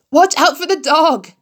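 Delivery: high, loud bleating call; crying sheep. A narrator's reading. Sheep calling to Wilbur, high bleating cry. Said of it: "cried the sheep".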